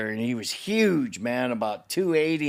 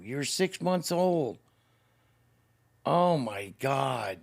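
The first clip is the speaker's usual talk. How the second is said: heartbroken; slower than usual. Real, not acted. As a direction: let the heartache drag the words. Retells night of heartache.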